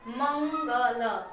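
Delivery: "मंगल" drawn out, nasal "मं", then ग and ल apart; नाक पर जोर. Shown as a demonstration. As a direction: sound out "मंगल" in pieces, leaning on the nasal. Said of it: "इसका उच्चारण नाक पे ज्यादातर जोर जाता है". ("मंगल" नाक पर जोर देकर, अक्षर अलग-अलग)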